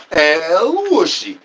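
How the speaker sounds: slow, stretched El Whooshy call; drawn-out catchphrase. Pretend. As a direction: stretch it out like a showman. Repeated catchphrase bit.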